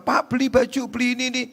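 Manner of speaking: high-pitched market seller's patter; market vendor. Acted. Vendor at the market urging a man to buy, high hawking voice. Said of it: "Ke pasar".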